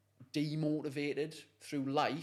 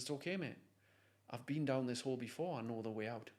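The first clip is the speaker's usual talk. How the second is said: reassuring; 5 dB quieter than usual. Retold or imitated. Helper reassures man, hand on shoulder.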